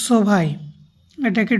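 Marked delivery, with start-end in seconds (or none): 0.1-0.5 সোভাই as a learner's German "zwei"; German pronunciation. Shown as a demonstration. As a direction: teach সোভাই with a split first syllable, so-vai. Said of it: "এটাকে বলবো". (সোভাই, German সংখ্যার উচ্চারণে)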